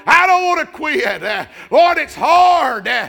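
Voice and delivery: fervent praying cry; desperate prayer. Acted. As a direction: plead with God as if at the altar. Voicing a praying worshipper.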